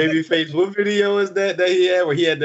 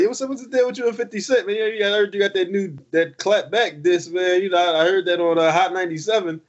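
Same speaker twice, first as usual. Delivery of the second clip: radio interviewer; 3 semitones higher than usual. Retold or imitated. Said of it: "They be like, you be like".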